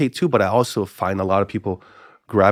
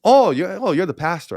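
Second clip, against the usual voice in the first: imitating the uncle; 8 semitones higher than usual. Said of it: "And I go".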